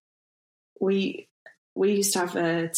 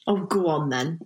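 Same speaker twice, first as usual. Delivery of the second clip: mock reluctant acceptance; 2 semitones lower than usual. Shown as a demonstration. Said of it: "You respond to tea by saying tea".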